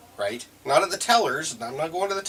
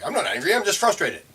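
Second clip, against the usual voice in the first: higher, louder, laughing mock protest; mock defensive excuse; 10 semitones higher, 7 dB louder than usual. Mocking someone's defensive excuse.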